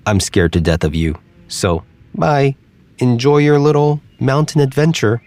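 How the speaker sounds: lightly voiced, wry farewell; a scared squirrel brushing him off. Squirrel says bye.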